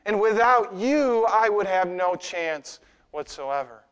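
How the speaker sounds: slow, humble plea; humbly. Acted. Psalmist humbly thanking the Lord, slow and humble. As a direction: pray it slowly and humbly, as a grateful psalmist. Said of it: "very humbly".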